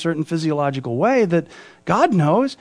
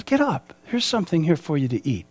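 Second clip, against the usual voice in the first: gentle; 5 dB quieter than usual. Retold or imitated. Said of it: "touches him ever so kindly, ever so gently".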